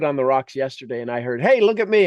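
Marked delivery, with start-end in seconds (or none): 1.4-2.1 higher, louder call of "Hey, look at me"; mock yell. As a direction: shout it like a tree calling for attention. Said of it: "literally somebody yelled".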